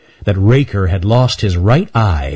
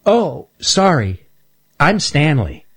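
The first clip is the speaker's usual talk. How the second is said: high, small nervous squirrel voice; a timid young squirrel pleading; Stanley the squirrel; 7 semitones higher, slower than usual. Acted. Stanley shy.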